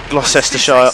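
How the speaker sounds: "Gloucestershire" as "gloss-SESS-ter-shire"; full-syllable misreading of "Gloucestershire"; spelling pronunciation. Shown as a demonstration. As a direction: say "Gloucestershire" as spelt, ending shy-er. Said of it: "pronounce it as it's written".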